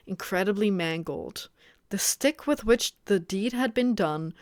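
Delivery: measured audiobook-style reading; story narration. A narrator's reading. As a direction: read the story aloud evenly. Reads the novel aloud.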